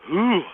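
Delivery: high spooky ooh; ooh like something scary. Shown as a demonstration. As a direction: gasp like it's scary. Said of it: "You're gonna go".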